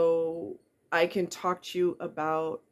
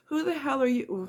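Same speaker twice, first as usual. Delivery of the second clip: indignant; 7 semitones higher than usual. Real, not acted. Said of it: "scolding online doubters".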